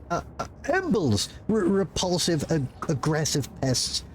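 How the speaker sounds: a frazzled little bureaucrat caught off guard; nervous clerk voice. Acted. Clerk role.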